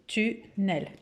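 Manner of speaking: "Tunnel" softly as tu, pause, nel; soft, separated "Tu-nnel"; syllable by syllable. Shown as a demonstration. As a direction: count out "Tunnel" quietly in two pieces. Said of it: "deux syllabes".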